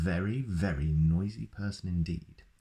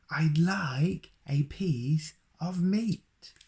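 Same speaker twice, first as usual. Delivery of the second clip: much higher, very slow drawn-out roar; roaring Mister Noisy; 11 semitones higher, 3 dB louder, much slower than usual. Acted. Mister Noisy roars at the baker who pretends not to hear, slow roar. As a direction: stretch every word into a roar. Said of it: "Mister Noisy shouted".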